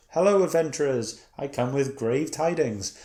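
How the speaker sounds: a hint of a solemn quest-giver announcing doom; cliche NPC queen. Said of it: "a very N P C kind of thing".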